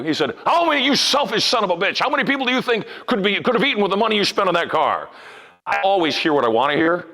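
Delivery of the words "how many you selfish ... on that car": retold outburst, pitched up but contained; retold angry rant. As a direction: imitate an indignant heckler without really screaming. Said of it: "he's screaming at me, ranting and roaring".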